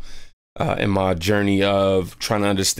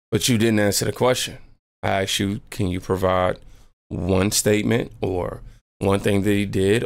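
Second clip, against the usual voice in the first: composed, even-voiced challenge, imitating her; calm. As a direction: calmly put the question back, without heat. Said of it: "she calmly goes".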